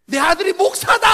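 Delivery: 높고 크게 자랑하며 외치기; 아들 자랑을 소리쳐 터뜨리듯; 자랑스러운 외침. Retold or imitated. 선배가 자랑하며 외침. (자랑스럽게 크게 외치는 선배)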